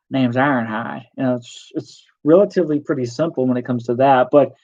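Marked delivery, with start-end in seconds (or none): 0.1-1.0 put-on Southern accent. Showing how simple the character voices are, doing an Ironhide Southern accent. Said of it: "just do a Southern accent".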